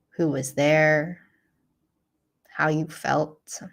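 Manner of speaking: calm, unhurried guiding voice with long pauses; guided meditation. Real, not acted. Teacher guiding listeners through a self-compassion practice, calm meditation voice. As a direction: lead them gently through the practice, leaving space.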